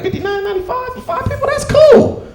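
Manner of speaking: high, light, easygoing "that's cool"; mock naive relief. Dad at the booth, mistakenly relaxed about the price. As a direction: play it breezy, unaware. Retells himself at ticket booth.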